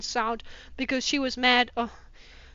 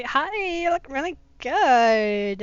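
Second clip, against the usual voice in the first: shy and sexy; slower than usual. Retold or imitated. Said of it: "shy and sexy".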